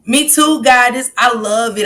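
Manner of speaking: excited, emphatic agreement; gushing. Real, not acted. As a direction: gush it, high and loud.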